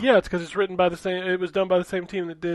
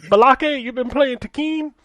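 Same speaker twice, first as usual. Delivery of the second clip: teasing, higher voice; mock mispronouncing; 6 semitones higher, 3 dB louder, slower than usual. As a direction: make fun of the wrong word. Mocking the mispronunciation.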